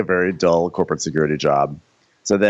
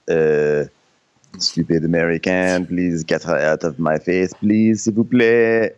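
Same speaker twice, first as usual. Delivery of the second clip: put-on French accent. Imitated French guy rebuffing the American.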